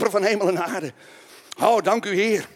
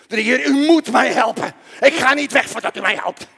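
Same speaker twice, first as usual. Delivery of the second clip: very serious plea; 4 semitones higher, 6 dB louder than usual. Acted. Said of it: "Heel serieus".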